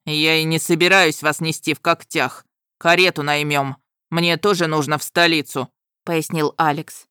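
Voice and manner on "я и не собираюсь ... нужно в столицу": dragon voice. A narrator's reading.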